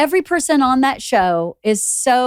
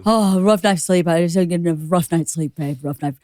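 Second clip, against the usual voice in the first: lower, whiny mock moaning; mocking husband; 6 semitones lower than usual. Wife mimicking her husband's daily complaints, whiny. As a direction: mimic a husband's self-pity.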